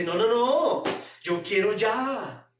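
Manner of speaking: a demanding disciple who won't wait; impulsive Peter. Retold or imitated. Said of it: "un Pedro que es, ojo, miedoso".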